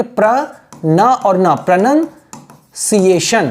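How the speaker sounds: "प्रोनंसिएशन" built slowly from pra, na and na; syllable-by-syllable demo. Shown as a demonstration. Teacher shows how to pronounce it, "प्रोनंसिएशन" slowly piece by piece. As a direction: break "प्रोनंसिएशन" apart, long pause before si-ay-shun. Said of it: "इसको कैसे pronounce करेंगे".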